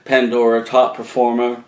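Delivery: a touch of New England accent; slipping into a New England accent. Real, not acted. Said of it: "sliding back into my New England accent".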